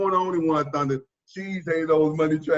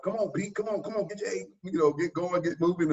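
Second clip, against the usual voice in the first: higher-pitched mock heckling, urging him on; imitated trash talk; 5 semitones higher than usual. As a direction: imitate a coach egging players on. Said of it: "talking junk".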